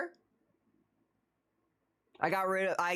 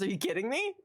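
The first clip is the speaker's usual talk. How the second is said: through a tube; 2 semitones higher than usual. Acted. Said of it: "I can do groan tube noises".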